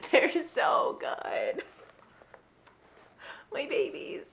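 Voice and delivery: high slow whisper; slow tender whisper. Real, not acted. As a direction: breathe it like a secret to them. Whispering to tiny books.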